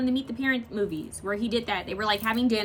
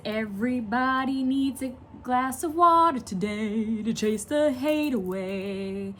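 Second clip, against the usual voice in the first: slow, drawn-out dramatic recital; dramatic song quote; slower than usual. Retold or imitated. Reciting the song lyric slowly and dramatically. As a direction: savor each word like a soulful lyric. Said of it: "He's so dramatic in that".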